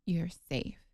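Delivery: calm her like a nurse close by; soothing nurse. Retold or imitated. Nurse leaning in to calm the laboring wife, soft and soothing. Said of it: "gets her head close to mine".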